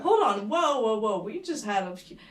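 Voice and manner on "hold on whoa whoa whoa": surprised stop. Real, not acted. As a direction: halt in surprise. Realising France has five sides.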